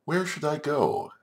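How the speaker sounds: high-pitched pondering little creature; wondering spider. Acted. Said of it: "and she thought".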